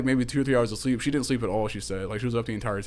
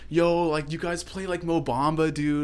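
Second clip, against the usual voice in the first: higher-voiced hype imitation of Max; imitating Max; 5 semitones higher than usual. Retelling Max in the car demanding music, higher mock voice. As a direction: play the pushy party guy asking for music. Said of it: "he's like".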